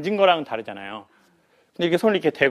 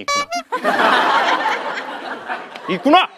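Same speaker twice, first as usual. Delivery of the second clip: shrieking laugh. Retold or imitated. Speaker realizing the nurse has designs on him, squealing laugh.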